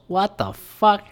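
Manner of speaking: shocked. Real, not acted. Reacting to allegation details.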